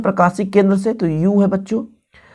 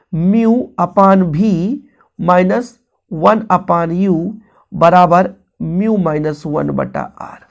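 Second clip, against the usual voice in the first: slow dictation; 3 semitones lower, slower than usual. Shown as a demonstration. Dictating the formula to students.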